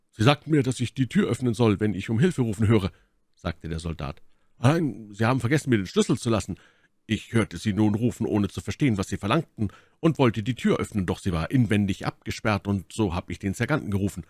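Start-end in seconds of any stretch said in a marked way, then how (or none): 0.1-2.9 lightly voiced soldier, slightly raised; Soldat, eifrig berichtend. Soldier reports to lieutenant. 4.6-14.2 lightly voiced soldier, slightly raised; Soldat, eifrig berichtend. Soldier explains himself.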